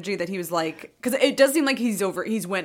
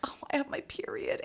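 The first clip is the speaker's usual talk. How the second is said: imitating Wendy; 6 semitones higher, 12 dB quieter than usual. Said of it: "she's like".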